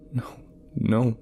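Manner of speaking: desperate, rising to a wail; begging through sobs, breaking high; sobbing plea. Acted. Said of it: "I sobbed loudly, begging".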